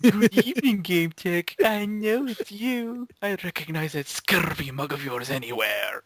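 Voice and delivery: lightly hammed-up pirate taunt; mock villain greeting. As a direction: ham it up like a pirate rogue who has caught someone out. Mock villain greeting to Game Tech.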